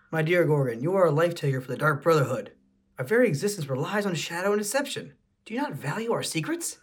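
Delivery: lady voice. Acted. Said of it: "I don't know how to do a lady voice".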